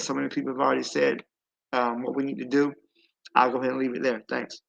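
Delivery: numb mouth after dental work; talking through a numb mouth; numb from the dentist. Real, not acted. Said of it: "whatever you eating, that is good".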